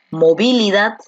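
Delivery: "movilidad" stressed on VI, the second syllable; misplaced stress. Shown as a demonstration. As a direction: wrongly hit VI in "movilidad". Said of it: "¿Dónde encaja mejor?".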